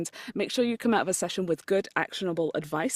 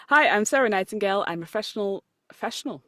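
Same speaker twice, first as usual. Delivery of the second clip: outro read; 3 semitones higher, 3 dB louder than usual. Shown as a demonstration. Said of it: "I'll try it again".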